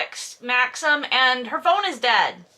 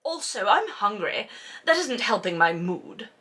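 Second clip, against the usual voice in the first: passive-aggressive whine; 2 semitones lower, 3 dB quieter than usual. Retold or imitated. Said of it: "the passive-aggressive thing".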